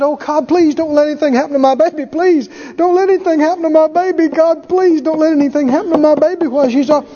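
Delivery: hammed-up anxious parent begging God; mock fretful prayer.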